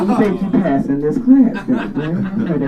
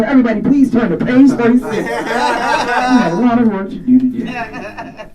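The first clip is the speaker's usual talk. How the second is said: smug teacher voice; 5 semitones higher than usual. Retold or imitated. Teacher moving on smugly.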